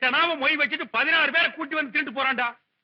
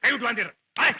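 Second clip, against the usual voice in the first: mildly raised, indignant telling-off; loud scolding. Acted. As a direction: berate a cheapskate guest. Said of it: "சத்தம் போட்டு பேசாதீங்க".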